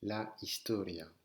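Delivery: HISTORIA begun on the I sound; silent H. Shown as a demonstration. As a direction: model historia with the H left mute. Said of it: "Le H ne se prononce pas". (H muet dans historia)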